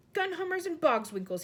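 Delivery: the giant yelps as his head hits glass; giant's cry. A narrator's reading. Giant cries out hitting the chandelier, startled yell. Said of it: "he cried".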